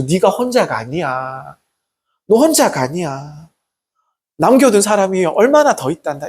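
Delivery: gently reassure, lightly voicing a caring God; tender reassurance. God telling Elijah he is not alone, imitated tender reassurance. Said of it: "이렇게 얘기하시는 분이 우리 하나님이시거든요".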